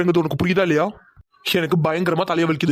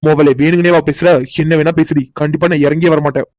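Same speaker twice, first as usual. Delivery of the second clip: angry inner rant; 7 dB louder than usual. Acted. Husband fuming to himself.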